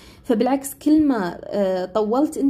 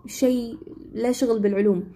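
a hint of nagging relatives, pitched higher at the start; imitating pushy relatives; 4 semitones higher than usual. Everyone pressuring her to study science, lightly imitated nagging. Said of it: "الكل كان يقول لي".

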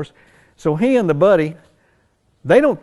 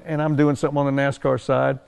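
ordinary delivery

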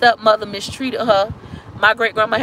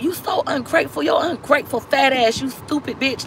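higher-pitched retold insults, not shouted; mock scolding in a raised pitch; imitated scolding mother; 4 semitones higher, 3 dB quieter than usual. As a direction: imitate a mother berating her child, voice pitched up. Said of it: "that's how I got talked to".

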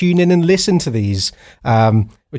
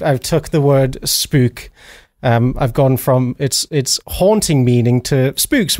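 ordinary talk, nothing marked

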